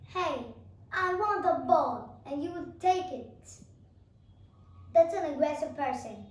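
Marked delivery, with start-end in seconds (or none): 0.1-2.2 louder, slow demand. Shown as a demonstration. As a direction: claim the ball bluntly. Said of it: "Be like".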